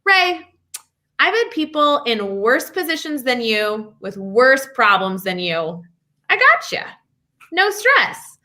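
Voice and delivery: mock swagger, pitch jumping up on the short phrases; swaggering doctor. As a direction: imitate a cocky, reassuring doctor. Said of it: "kind of swagger tone".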